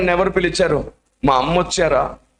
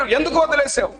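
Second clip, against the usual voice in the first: crying out; 11 semitones higher than usual. Retold or imitated. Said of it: "అరుస్తున్నాడు".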